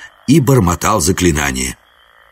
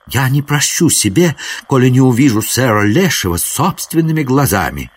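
high-pitched knightly vow; earnest courtly prince, pitched up; lofty prince, determined; 6 semitones higher than usual. Acted. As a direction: declare it with chivalric fervour.

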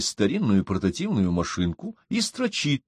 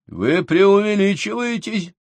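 indignant, much higher and slow; 11 semitones higher, 4 dB louder, slower than usual. A narrator's reading. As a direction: protest it, offended. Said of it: "возмутился Минц".

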